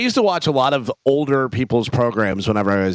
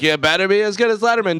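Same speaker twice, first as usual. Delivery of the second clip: mocking bystander; 7 semitones higher, faster than usual. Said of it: "Everyone was like".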